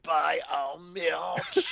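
put-on very slow, drawn-out French accent, rising. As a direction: stretch each word in a hammy French accent. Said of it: "did I turn on the French version of it?".

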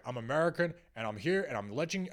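clumsy mock-American tourist voice; bad American accent. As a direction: attempt an American accent, badly. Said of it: "that's a bad American accent".

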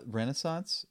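tag French attempt. Shown as a demonstration. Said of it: "In French?".

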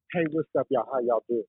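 chirpy greeting to throw people off. Retold or imitated. Diver greets plotting strangers in his unexpected A T voice. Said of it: "that voice was completely not what they expected".

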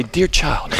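a touch of British teacher; British accent. Retold or imitated. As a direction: lightly put on a British accent. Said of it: "in a British accent, she'd say".

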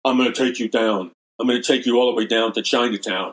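mock Brooklyn threat, half-hearted impression; loosely put-on Brooklyn accent, quick and punchy. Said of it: "in his Brooklyn accent".

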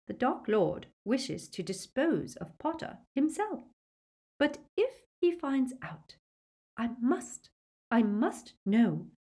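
high, agitated thinking aloud; muttering to self. A narrator's reading. Witch frets about her master finding out, agitated muttering. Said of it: "more to herself than to the others".

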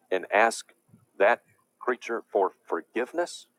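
slow, loud, indignant condemnation; preacher's slow, loud fury at blasphemy; slow outrage. Real, not acted. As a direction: hammer each word in disgust.

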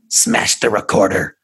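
creepy spirit voice. Acted. Spirit orders its own recording smashed, slow creepy voice. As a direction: drag it out like something inhuman. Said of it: "that voice came from her".

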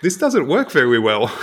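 imitated complaint with W for R in "very"; can't say R. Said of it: "they couldn't say the letter R".

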